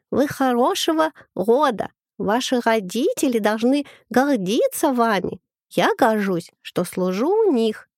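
high squeaky governess with a burr. Retold or imitated. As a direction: lightly mimic a prim governess. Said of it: "картавя произнесла писклявым голоском".

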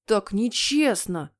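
put-on drawn-out childish wail; howling. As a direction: wail it slowly as a wronged boy. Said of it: "взвыл он". (протяжно взвыв)

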